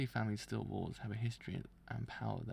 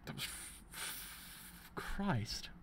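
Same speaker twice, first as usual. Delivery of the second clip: shocked; 4 dB louder, much slower than usual. Real, not acted. Shocked after reading a grim scene.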